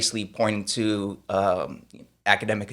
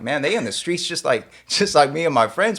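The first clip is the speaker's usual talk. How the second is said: higher-pitched, animated disbelief; incredulous; 5 semitones higher than usual. Retold or imitated. Recalling his reaction to hype about his friends, incredulous.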